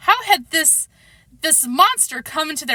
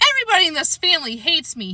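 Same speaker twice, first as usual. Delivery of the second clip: fast, higher outburst; shouting; 6 semitones higher, faster than usual. A narrator's reading. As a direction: blurt it out in a rush. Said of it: "he shouted".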